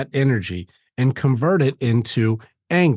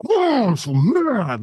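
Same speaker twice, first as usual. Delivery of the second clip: high, slow mocking grumble; hammed-up pouty man; mock mad guy; 10 semitones higher, slower than usual. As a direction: girlfriend mimicking her mad guy. Imitating angry boyfriend.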